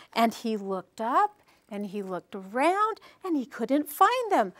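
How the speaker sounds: gentle, measured storybook telling; story narration. Acted. Teacher retells a peddler's story to parents, storytelling voice. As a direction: tell it like a picture book, drawing out the suspense. Tells picture-book story to audience.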